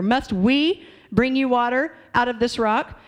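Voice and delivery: smug, self-important Moses taking credit; cocky. Acted. Pastor voicing Moses boasting to the people, cocky. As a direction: say it like you did the miracle yourself. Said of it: "he's wanting to take some credit here".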